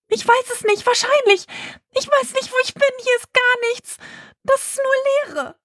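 high, anxious voice; lost in the blackness and scared; calling out, afraid, from the void; frightened. Acted.

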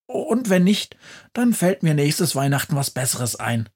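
cheeky Christmas witch defending her plan; high-pitched chatty witch, fast bursts; lively witch. Acted. Witch Befana carefree.

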